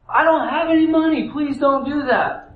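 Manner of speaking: high, then slowing into a plea; begging servant. Acted. Servant on his knees begging the king, high and pleading. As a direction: beg on your knees.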